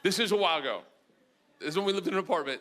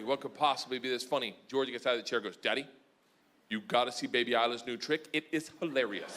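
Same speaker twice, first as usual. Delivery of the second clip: hushed early morning; 8 semitones lower, 6 dB quieter than usual. Retold or imitated. Early morning, kids asleep nearby.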